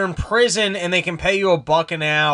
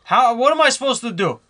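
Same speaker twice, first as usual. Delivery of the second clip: put-on higher, complaining Jewish accent; whiny Jewish accent; 5 semitones higher than usual. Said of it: "he's, like, actually complaining right now".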